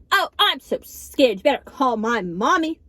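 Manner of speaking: slowed, sarcastic fake fear; mock scared. Sassing the camera guy with mock fear. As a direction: drawl the fear to mock him. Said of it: "I was like".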